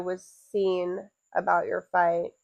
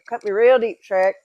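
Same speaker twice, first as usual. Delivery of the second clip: Shrek quote; 7 dB louder than usual. Pretend. Repeats Shrek quote louder.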